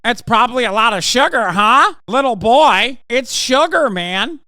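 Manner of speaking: high, loud, fast mock of his line; mocking quote of DeSantis, high and loud; mocking imitation. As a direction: parody the awkward politician, squealing. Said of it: "he did it".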